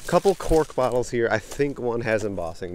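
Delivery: calling out dad's words loudly; loud relay of a far-off call. Retold or imitated. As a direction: pass dad's shout along to the camera. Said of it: "He said".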